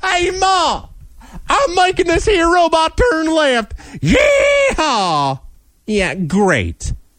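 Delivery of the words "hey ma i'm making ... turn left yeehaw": put-on drawling hick voice, very high. Mocking a NASCAR robot buyer by playing a Jethro type: mocking hick voice. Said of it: "That's real super, Jethro".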